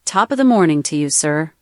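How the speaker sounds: quick Irish-accented greeting. Shown as a demonstration. Assistant giving the host accent samples, Irish accent. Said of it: "Irish accent".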